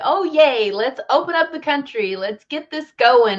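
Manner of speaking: mildly excited mock cheer; a touch of gleeful eagerness. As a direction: act out everyone's eager excitement, lightly. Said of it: "So we're all excited".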